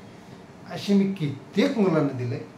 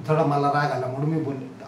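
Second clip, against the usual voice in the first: loving apology; 3 semitones lower than usual. Retold or imitated. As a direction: coax her back tenderly. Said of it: "प्रेमाने बोललं की". (प्रेमळ, हळुवार समजूत)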